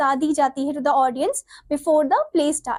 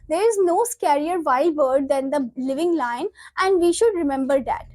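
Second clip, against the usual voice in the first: slow, deliberate textbook read-aloud; measured classroom reading; much slower than usual. Acted. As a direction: read the script out slowly, word by word. Reads play lines aloud.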